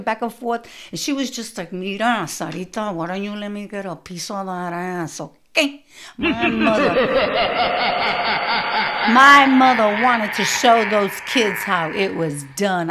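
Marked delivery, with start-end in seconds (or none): 1.7-5.8 threatening mother. Retold or imitated. Imitating her mother threatening. 6.2-12.9 loud, laughing through the words; can't stop laughing while telling it; big laugh breaking into the line. Real, not acted.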